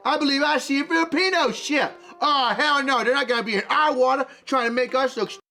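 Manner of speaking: put-on a mild comedic Chinese accent, proud and bossy. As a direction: play a boastful Chinese sailor with a light accent. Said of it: "South Park levels of beautiful parody".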